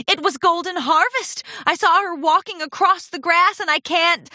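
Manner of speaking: stage whisper. A narrator's reading. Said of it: "Rarity stage whispered".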